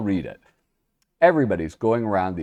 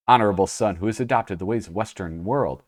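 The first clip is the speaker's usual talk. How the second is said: put-on Japanese accent. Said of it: "when I tried to do the accent".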